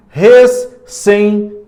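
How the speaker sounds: Recentes with the ce sound leaned on. Shown as a demonstration. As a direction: stress the ce in Recentes to compare it with cometa. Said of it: "com o som da palavra cometa". (Recentes destacando o som do ce)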